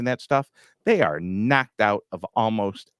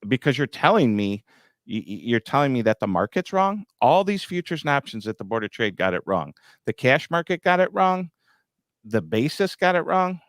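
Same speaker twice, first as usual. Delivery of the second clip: mock disbelief climbing much higher on the last lines; incredulous retort; 4 semitones higher than usual. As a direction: hammer each "got it wrong" like it's absurd. Retelling an argument with a farmer.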